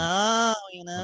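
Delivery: high, drawn-out Southern gay voice. Retold or imitated. Mimicking guys he met, high Southern gay voice. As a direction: gush it in a hammed-up camp Southern accent. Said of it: "a Southern accent mixed with gay voice".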